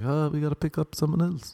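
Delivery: high-pitched imitation of the Chinese driver; Chinese woman driver. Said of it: "Chinese woman was like".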